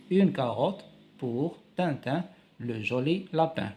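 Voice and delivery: une carotte pour Tintin read slowly; slow reading aloud. Shown as a demonstration. Teacher rereading the caption slowly to pupils. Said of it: "Il lui donne des carottes".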